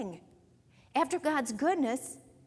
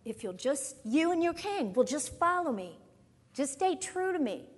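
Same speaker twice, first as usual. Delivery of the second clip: higher-pitched, earnest appeal as God; pleading; 3 semitones higher than usual. Acted. God appeals to his people through the prophet Samuel, pleading.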